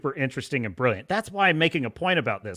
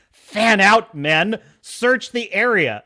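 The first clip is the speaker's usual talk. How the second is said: mock goon order; 3 semitones higher, 5 dB louder, slower than usual. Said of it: "he tells his men".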